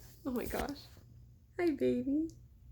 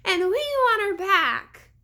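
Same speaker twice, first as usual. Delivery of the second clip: much higher, slow, loud plea; little girl pleading; 9 semitones higher, 8 dB louder, much slower than usual. A narrator's reading. Little girl begging the prisoner, high and urgent. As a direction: beg him for help. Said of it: "Daphne added".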